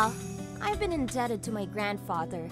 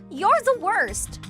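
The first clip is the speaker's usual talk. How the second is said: high, loud, drawn-out insult; angry accusation; 6 semitones higher, 5 dB louder, slower than usual. Acted. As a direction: hurl the insult at him. Woman accuses him.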